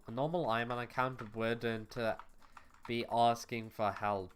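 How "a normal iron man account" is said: "normal" picked out with a raised emphasis; stress on NORMAL. Real, not acted. Player clarifying who wouldn't beg, stressing "normal". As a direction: lean on "normal" to qualify the claim. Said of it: "emphasis on the word normal".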